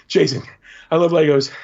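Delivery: put-on high, eager kid voice; gushing little boy. Little fan gushing to Dan, high and eager. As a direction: gush like a starstruck child.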